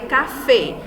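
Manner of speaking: "café" with the stress on FÉ; stress on last syllable. Shown as a demonstration. Teacher giving an aguda example, "café" stressed on FÉ. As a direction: land firmly on the end of "café". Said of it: "A última sílaba mais forte".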